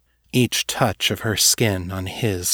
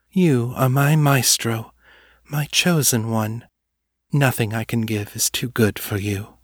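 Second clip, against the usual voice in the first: seductive muse voice. Acted. Muse praises him slowly.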